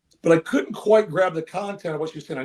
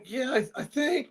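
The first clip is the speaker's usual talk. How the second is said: higher, cracking, timid reply; 8 semitones higher, 5 dB quieter than usual. Retold or imitated. Caught coach answering the translator, voice cracking. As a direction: squeak it out like a caught kid. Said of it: "My voice is cracking".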